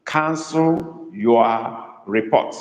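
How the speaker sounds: very slow, with "Cancel" drawn out; emphasis on cancel. Shown as a demonstration. Tutor dictating to Igbo students, "Cancel" slow and emphasized. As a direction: stretch "Cancel" and set it apart from the rest. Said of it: "Emphasis is on cancel".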